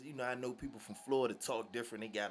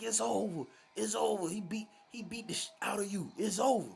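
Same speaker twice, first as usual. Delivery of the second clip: much higher, louder jubilant shout; triumphant yelling; 10 semitones higher, 5 dB louder than usual. Retold or imitated. Gramps hollers in triumph after the knockout, high and loud. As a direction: crow over the win.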